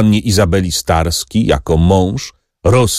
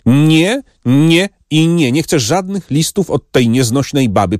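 heated, raised protest; angry refusal; 7 semitones higher than usual. A narrator's reading. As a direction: refuse her flatly, furious. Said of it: "Rumieniec gniewu".

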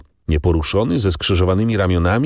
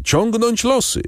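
even higher, climbing repeat of the call; bandits calling out louder. A narrator's reading. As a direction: push the repeat up, more insistent. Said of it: "wołali jeden przez drugiego bandyci". (wołanie jeszcze wyżej, bardziej natarczywe)

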